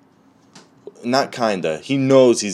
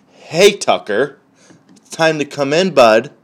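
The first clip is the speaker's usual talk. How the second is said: calling the dog; 6 semitones higher, 6 dB louder than usual. Acted. Owner calling Tucker the dog inside, raised sing-out voice. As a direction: call out to a dog in the yard.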